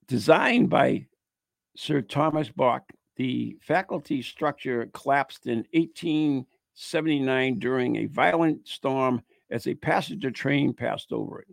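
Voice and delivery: measured read-aloud narration; ghost story read aloud. Acted. Host reading a Christmas Eve ghost tale, narrating. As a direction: read it out as a local legend.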